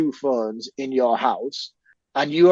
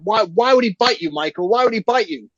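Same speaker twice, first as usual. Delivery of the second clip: put-on 1 incredulous kid; 8 semitones higher than usual. Sam questioning bleeding Michael.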